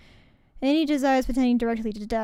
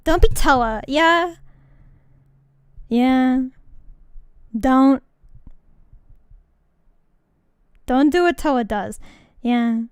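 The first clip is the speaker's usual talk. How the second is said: loud mock lecture; 7 dB louder than usual. Real, not acted. Mock warning to viewers, loud.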